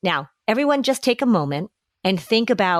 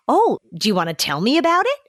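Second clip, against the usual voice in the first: gentle invitation; 6 semitones higher, faster than usual. Acted. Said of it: "You're inviting them into a conversation".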